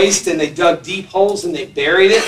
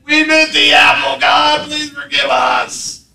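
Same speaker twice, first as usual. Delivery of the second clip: pleading confession; 6 semitones higher, slower than usual. Retold or imitated. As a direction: beg forgiveness in a higher, drawn-out voice. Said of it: "and said".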